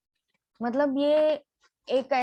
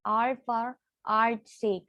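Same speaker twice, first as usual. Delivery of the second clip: slow emphasis; much slower than usual. Shown as a demonstration. Teacher repeating key phrase.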